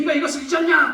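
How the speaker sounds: high, loud shouted voice.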